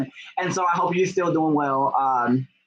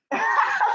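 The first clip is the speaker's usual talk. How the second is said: high laugh. Real, not acted. Laughing at own story.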